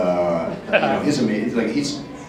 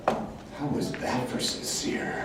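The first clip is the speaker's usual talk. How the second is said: mock sincere; 2 semitones higher, 12 dB quieter, much slower than usual. Mock-earnest aside after preaching acting.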